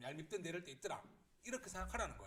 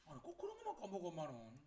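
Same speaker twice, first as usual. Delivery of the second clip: aggrieved complaint; 2 semitones higher than usual. Acted. Child complaining about forgetful mum, aggrieved. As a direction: grumble quickly in a raised pitch. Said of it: "억울하겠죠?".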